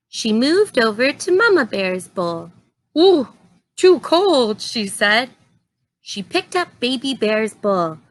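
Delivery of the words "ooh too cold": put-on higher, louder little-girl complaint; a girl yelping at cold porridge; Goldilocks, too cold.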